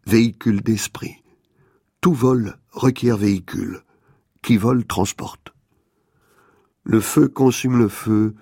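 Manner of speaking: measured poetic recitation with deliberate pauses; composed radio essay delivery; literary essay reading. Acted. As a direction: read it out phrase by phrase, letting each image land.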